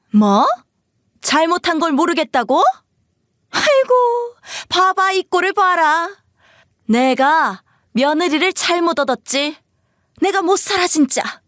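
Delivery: high wailing complaint of a mother-in-law; acted indignation, drawing out the moan; exasperated lament.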